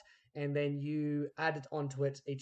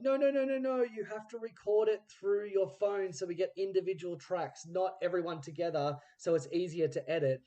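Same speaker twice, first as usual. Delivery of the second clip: urgent correction; 4 semitones higher than usual. Retold or imitated. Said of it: "we're like".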